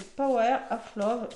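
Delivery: English words with a French accent; French speaker's English pronunciation. Real, not acted. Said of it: "mon accent anglais".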